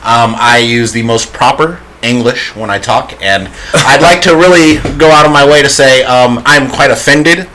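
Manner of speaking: white voice. Pretend. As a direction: sound prim and very proper. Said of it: "He wants us to do the white voice".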